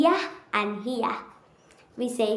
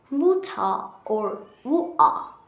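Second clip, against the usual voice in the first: British accent. Shown as a demonstration. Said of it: "Say with me".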